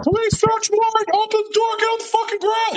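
high, loud hammed-up police yell; mock police shout. Police kicking the door in, yelling in a mock raid shout. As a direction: bark it like a cop breaching a door.

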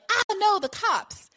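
panicked yelp, high pitched; alarmed. Retold or imitated. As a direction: blurt it out in sudden alarm. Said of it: "they're like".

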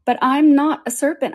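high-pitched insistent denial; protesting Alice. A narrator's reading.

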